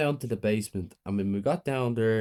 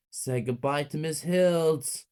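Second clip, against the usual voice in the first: slow gloating threat; cold menace; 6 semitones higher, slower than usual. A narrator's reading. Mother to her kids, cold gloating. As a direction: savour the moment before shooting.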